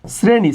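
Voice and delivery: শ্রেণী begun with a dental s, "sreni". Shown as a demonstration. Teacher answering the class question, শ্রেণী with a dental s. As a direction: pronounce শ্রেণী as "sreni", s not sh. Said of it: "এটা দন্তস্ব".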